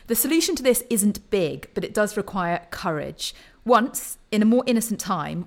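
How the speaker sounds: measured reading from the page; deliberate, phrased read-aloud delivery. Acted. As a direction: read out an essay passage to close a discussion. Reads a paragraph aloud.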